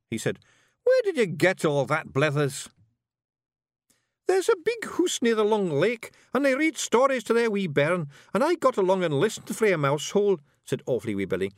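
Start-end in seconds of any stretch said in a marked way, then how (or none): 0.8-2.7 high, loud wee Scottish fairy; rowdy little Scots pixie voice; broad Scottish accent. Acted. Rob scolds Billy. 4.3-10.4 high, loud wee Scottish fairy; rowdy little Scots pixie voice; broad Scottish accent. Acted. Billy explains.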